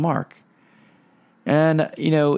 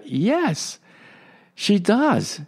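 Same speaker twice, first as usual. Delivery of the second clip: emphatic yes; 8 semitones higher, much slower than usual. Retold or imitated. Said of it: "they emphatically said".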